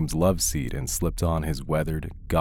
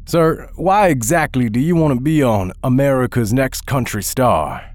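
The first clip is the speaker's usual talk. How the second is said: skeptical judge; 7 semitones higher, 6 dB louder than usual. Acted. Judge Will questions contestant.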